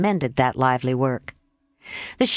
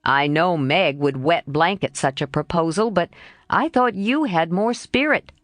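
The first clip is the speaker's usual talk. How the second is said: insinuating. Acted. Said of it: "began Laurie insinuatingly".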